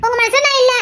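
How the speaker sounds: high, incredulous repeat of his words; stunned echo. Acted. Wife repeating her husband's rejection in disbelief, incredulous and high.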